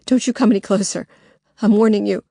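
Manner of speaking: loud, fast, defiant warning; Lily holding up pepper spray, warning the intruder loudly. Acted. Fierce warning.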